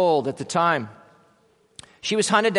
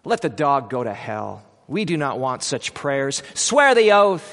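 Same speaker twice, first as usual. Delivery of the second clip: furious; 3 semitones lower than usual. Acted. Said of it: "was furious".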